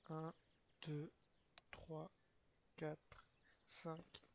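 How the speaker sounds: soft murmured count; counting under breath. Real, not acted. Streamer timing a cooldown, counting softly. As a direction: count quietly to yourself.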